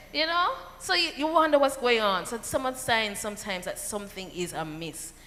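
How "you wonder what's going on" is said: usual speaking voice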